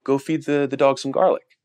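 a hint of a calm, smiling abuela; grandma calmly tells the kid what to do; calm grandmother. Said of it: "the grandmother calmly smiles".

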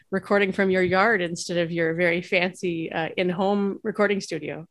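dry ironic praise; sarcastic. Acted. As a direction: lean on fancy with sarcasm. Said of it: "the sarcasm in my voice for fancy".

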